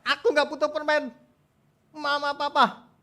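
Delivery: put-on high, wailing child voice; upset lost child. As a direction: protest like a crying little kid. Lost child refuses candy, cries.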